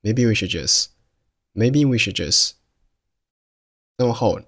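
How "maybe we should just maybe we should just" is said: "should" and "just" with the end consonants swallowed; swallowed final stops. Shown as a demonstration. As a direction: shape the final d and t in "should" and "just" but don't release them. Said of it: "但是把声音给吞掉".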